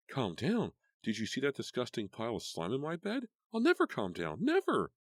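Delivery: high, loud building to a yell; furious outburst. A narrator's reading. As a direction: scream the final never. Karen losing control.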